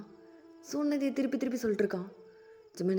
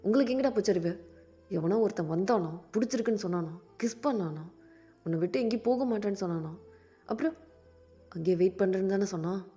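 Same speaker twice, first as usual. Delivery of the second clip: loud, lower furious tirade; angry rant; 3 semitones lower, 7 dB louder, faster than usual. Acted. Daya scolding Jameen about the boy who left, loud and furious. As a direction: tear into him with every question. Daya berates lovesick friend.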